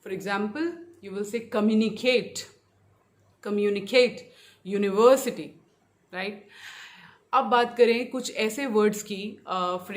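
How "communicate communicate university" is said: communicate and university in slow, punched syllables; deliberate word-stress demo on communicate, university. Shown as a demonstration. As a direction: spell out the beats of communicate and university with one heavy stress. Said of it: "stress हमेशा बीच में रहेगा".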